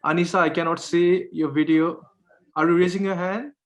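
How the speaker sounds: ordinary talk, nothing marked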